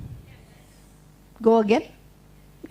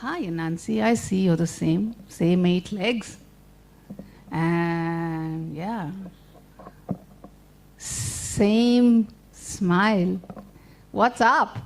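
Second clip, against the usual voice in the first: slow tortoise; 7 semitones lower, much slower than usual. Acted. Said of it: "and he said".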